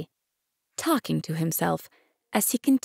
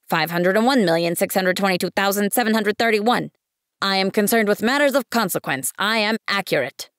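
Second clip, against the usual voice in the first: pompous businessman; 3 semitones higher, 4 dB louder than usual. Acted. Businessman recites his count.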